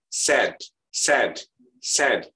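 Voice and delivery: sad with a vowel between A and E; "sad" with a blended AE vowel; A leaning to E. Shown as a demonstration. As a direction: say "Sad" as "saed", A shaded toward E. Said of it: "agak sengaunya ke E".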